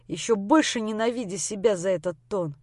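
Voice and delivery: usual speaking voice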